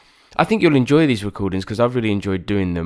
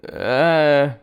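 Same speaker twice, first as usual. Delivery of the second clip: mock blank uh; 7 semitones higher, 6 dB louder than usual. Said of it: "of me going".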